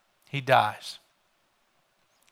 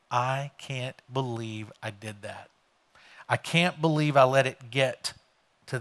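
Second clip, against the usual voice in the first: hushed regret; 3 semitones lower, 5 dB quieter than usual. Retold or imitated. Listener's regret voiced in sermon.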